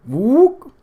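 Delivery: high whooping ape call. A narrator's reading. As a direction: whoop like an orangutan. Ape's noise.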